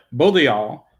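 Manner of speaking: both of y'all said loosely, th softened toward d; both in a phrase. Shown as a demonstration. A speaker demonstrating how both changes inside a phrase. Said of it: "if I have that in the sentence".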